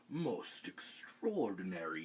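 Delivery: slow hushed doctor marvels; doctor leaning close, slow and hushed; awed whisper. Acted. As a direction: breathe it out in amazement. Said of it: "he exclaimed".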